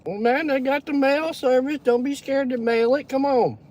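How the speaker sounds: playful pleading. Real, not acted. Teasing viewer to mail sauce.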